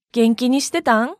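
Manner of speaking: casual Kansai question intonation; Kansai dialect. Shown as a demonstration. Teacher showing a Kansai "how have you been", in Kansai intonation. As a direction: ask it in everyday Kansai lilt. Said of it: "日常会話で使われる表現では".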